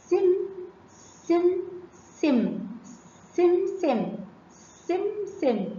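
سم in separate, carefully sounded bursts; sounding out seen. Shown as a demonstration. Teacher lets pupils hear the seen, سم sounded out with a clear s. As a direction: repeat سم with a distinct opening hiss. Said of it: "تعالوا نسمع صوت السين".

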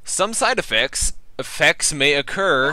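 mock pharmaceutical ad voice; drug ad read. Reads drug ad copy aloud.

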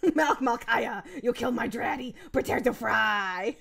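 barely holding in laughter while quoting; laughing mock quote. Garbled movie quote through laughter.

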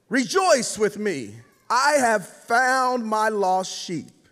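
slow, measured reading with weighty pauses; scripture reading. Acted. Preacher reading the lost sheep parable to the congregation, solemn scripture reading. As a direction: read it out slowly, letting each phrase land.

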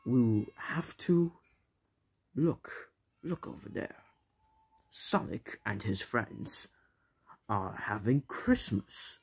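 unvoiced sneaky whisper. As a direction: hush it like spying. Spying on Sonic.

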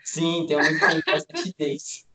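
words breaking up into giggles; laughing. Real, not acted. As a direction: answer through laughter. Joking reply about free time.

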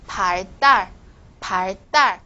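"달" in "발 달" hit as a hard tense t; tensed consonant. Shown as a demonstration. Teacher demonstrating what follows 发, "달" in "발 달" tensed. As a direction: separate "발 달" and tighten the "달". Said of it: "发后面的也是要变成这个紧音的".

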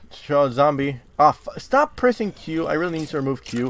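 ordinary talk

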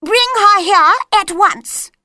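high, loud royal snap; queen tells the executioner, loud and high; bossy queen. A narrator's reading.

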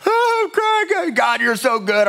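high-pitched imitation of weeping in worship; mock crying. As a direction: wail it like an overcome worshipper, starting very high and easing down. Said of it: "I'm crying in worship".

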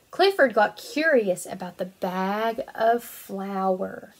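bright, lively storybook reading; reading to children. Acted. Teacher reading a picture book to her kindergarten class, lively storytelling. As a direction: read it out like it's circle time.

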